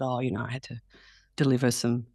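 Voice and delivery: low, understated, casual recounting; playing it down. Mother telling her kids about a day's filming, played down. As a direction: toss it off like an ordinary workday. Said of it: "play it down".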